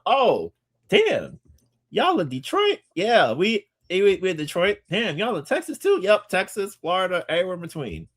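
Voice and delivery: very high-pitched mock amazement; acted surprised recognition. Acts out meeting New Yorkers everywhere.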